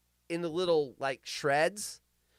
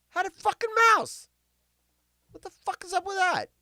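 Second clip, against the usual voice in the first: incredulous; 13 semitones higher than usual. Real, not acted. High incredulous exclamation.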